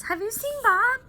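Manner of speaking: high, loud call across the room. Acted. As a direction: call for her dad from afar. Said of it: "she calls".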